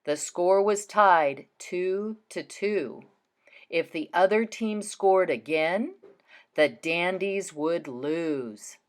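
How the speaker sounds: slow, suspenseful storytelling; slow dramatic read. Shown as a demonstration. Teacher builds suspense for the class, reading slowly. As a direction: draw out the tension slowly. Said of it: "Listen as I read and pause in those spots".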